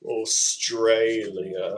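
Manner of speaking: very slow Australian "Australia"; Australian accent. Shown as a demonstration. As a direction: draw the word out, imitating an Australian accent. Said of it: "how they say it in the Australian accent".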